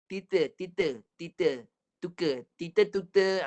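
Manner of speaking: put-on "Tita, tita" with t in place of k, childlike; T lisp. Shown as a demonstration. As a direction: say "tita, tuka" putting t for every k. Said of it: "pelat T".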